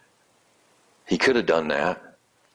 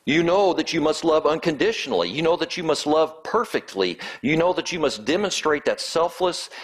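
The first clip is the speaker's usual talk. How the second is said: pointed, knowing tone; 3 semitones higher than usual. Retold or imitated. Jesus pressing the law expert, pointed and knowing. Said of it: "you can almost hear the tone in Christ's voice".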